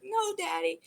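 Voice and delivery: put-on a kid objecting to being teased; protesting little girl. Teased little girl protests to her daddy, lightly high child voice.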